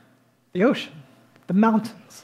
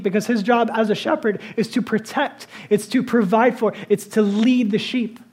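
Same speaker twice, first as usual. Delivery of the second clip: louder preaching cadence piling up questions; building preaching; 3 semitones higher, 3 dB louder than usual. Acted. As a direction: build the list like a sermon climb. Preacher builds over shepherd life.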